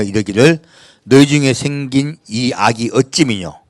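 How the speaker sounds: slowing solemn Bible reading; measured pulpit reading; scripture reading. Acted. Reads scripture aloud.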